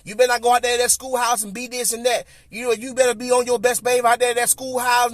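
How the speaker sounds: a hint of a scolding grandma, fast x1.4; grandma's warning. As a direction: rattle off grandma's warning quickly. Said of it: "My grandma's words was ringing".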